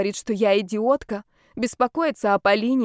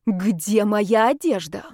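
slow, emphatic angry demand; growled demand; slower than usual. A narrator's reading. Heroine threatening him with a pan, growling. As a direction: growl it out word by word. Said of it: "прорычала я".

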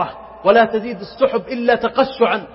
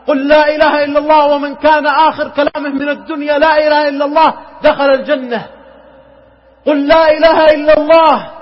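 louder, higher urgent plea to say the shahada; urgent calling out; 4 semitones higher, 4 dB louder than usual. Retold or imitated. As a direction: call out to the dying friend, pleading. Calling a dying man to recite. (نداء عالٍ ملحّ)

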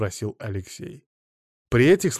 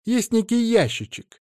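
ящичек drawn out high with contempt; contemptuous emphasis; 12 semitones higher, 5 dB louder than usual. Acted. Naina exposing Ada's hidden money drawer, contemptuous emphasis. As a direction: lean on ящичек with scorn. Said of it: "с презрением выделила Нечаева".

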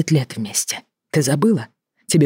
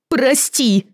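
high tearful cry of sorry; 10 semitones higher than usual. Acted. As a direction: wail it after him. Wife cries out as he leaves. (сквозь слёзы)

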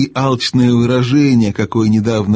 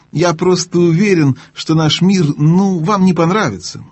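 higher, nervous babble; nervous babbling; 6 semitones higher than usual. Acted. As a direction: babble it out anxiously. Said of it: "продолжал лепетать Дигори".

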